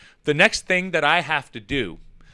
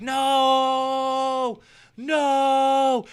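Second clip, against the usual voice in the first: mock horrified no; 9 semitones higher than usual. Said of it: "And I'm like".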